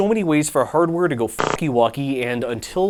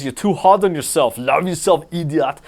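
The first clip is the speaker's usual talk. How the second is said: Arnold voice. Retold or imitated. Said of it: "read that in an Arnold voice".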